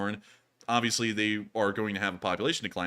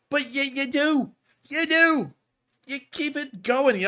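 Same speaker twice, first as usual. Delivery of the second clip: high-pitched, drawn-out amazement; amazed exclaiming; 14 semitones higher, 5 dB louder, slower than usual. Real, not acted. Amazed at viewers decoding Morse, high exclamation.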